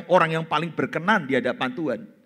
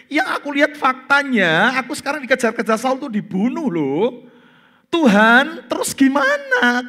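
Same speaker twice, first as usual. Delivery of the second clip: complaining prayer; 2 semitones higher than usual. Pretend. David complaining to God.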